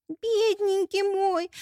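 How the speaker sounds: high, slow, wailing lament; hammed-up grieving over him; overplayed lament. Bride bent over her wounded groom, theatrical wailing lament. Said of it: "причитала Эль".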